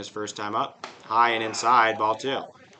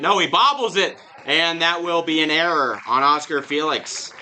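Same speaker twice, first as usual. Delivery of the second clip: higher, louder burst as he bobbles it; excited play-by-play call; 5 semitones higher, 6 dB louder than usual. Acted. Announcer calling a fielding error, excited. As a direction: catch the fumble live.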